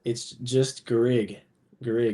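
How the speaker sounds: "Garrig" said slowly and plainly; name pronunciation. Shown as a demonstration. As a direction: model the surname as "Garrig", two syllables. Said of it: "say your last name so that people can just".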